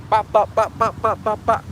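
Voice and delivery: a string of evenly popped shots; imitated gunshots. Preacher acting out troops lining people up, imitated gunshots. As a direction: mimic a burst of gunfire by mouth.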